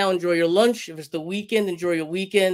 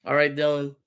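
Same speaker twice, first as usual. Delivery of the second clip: hoarse voice; 3 semitones lower than usual. Real, not acted. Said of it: "yelling with my hoarse voice".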